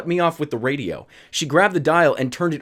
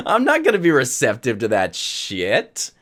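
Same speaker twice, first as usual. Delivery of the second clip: laughing refusal; 2 semitones lower than usual. Real, not acted.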